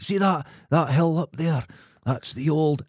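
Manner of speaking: a lightly thickened Scottish accent, mock tour guide; heavier Scottish accent. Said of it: "I lied with this heavier accent".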